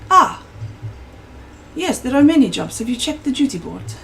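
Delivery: a quick, high Southern innkeeper voice; southern accent. Acted. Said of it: "in a true southern accent".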